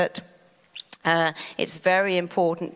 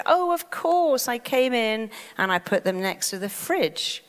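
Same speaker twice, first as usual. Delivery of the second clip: mock realization; 4 semitones higher than usual. Acting out the mind remembering the keys, lightly. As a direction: act the sudden recall, lightly. Mind recalling, acted relief.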